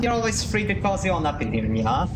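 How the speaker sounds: cutesy nya speak. Pretend. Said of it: "me acting like a cat".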